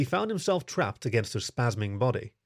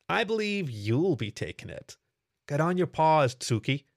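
devilish smirk; 5 semitones higher than usual. Acted. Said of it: "gave her a devilish smirk".

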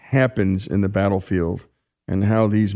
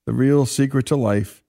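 lightly lifted, earnest letter reading; reading a letter aloud. Acted. Host reading a fallen soldier's letter to his wife, earnest reading. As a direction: read the soldier's words with care.

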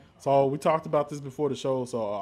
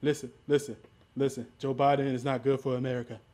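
lightly voiced insistent politician; Donald Trump. Cutting in to run down Joe Biden, light Trump impression. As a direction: talk over them as a blustering candidate, lightly put on. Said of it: "I'm doing Trump".

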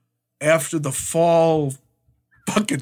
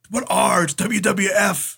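imitating stubborn disbelief, higher, slowing at the end; mock a baffled, insistent comeback; arguing; 5 semitones higher, slower than usual. Sheik rejecting the explanation about Raw, arguing. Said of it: "the Sheik's arguing".

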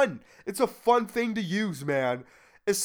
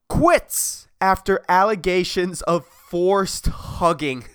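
reading headline slowly. Shown as a demonstration. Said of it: "the title of the article says".

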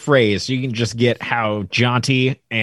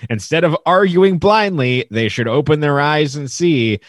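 deadpan reading. Shown as a demonstration. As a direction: read the lyrics dry, no singing. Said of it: "I'm gonna read it deadpan".

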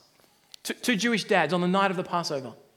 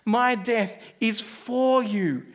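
very slow, tender words; Jesus speaking tenderly; 3 semitones higher, much slower than usual. Acted. Jesus telling his friends, slow and tender. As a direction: lay it down gently. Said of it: "what he's saying is".

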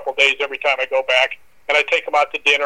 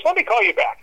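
quoting the landlady; 13 semitones higher than usual. Retold or imitated. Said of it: "she goes".

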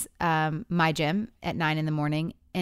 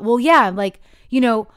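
louder, slowed mock-defensive retort; defensive anger; 4 semitones higher, 6 dB louder than usual. Wife imitating husband's defensive reply about the morning. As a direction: imitate him snapping back, indignant. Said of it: "then he got defensive and angry".

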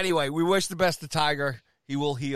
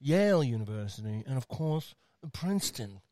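creepy announcer voice. Acted. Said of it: "I'm trying to get us from this voice now".

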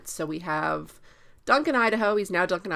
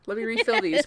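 squeaky little tear-refiller; 8 semitones higher, faster than usual. Retold or imitated. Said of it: "he's got little".

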